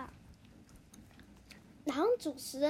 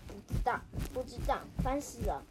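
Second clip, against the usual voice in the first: put-on lowered, grumbling old mouse; grumpy grandpa mouse; 2 semitones lower, faster than usual. Grandpa mouse waves off the questions, lightly voiced grumpy old man. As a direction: brush them off like a cranky old man.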